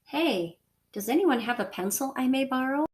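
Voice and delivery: Hey, then a clear pause before the rest; pause after hey. Shown as a demonstration. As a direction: hold a beat after "Hey" before "does anyone have a pencil I may borrow". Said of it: "Did you hear I naturally paused?".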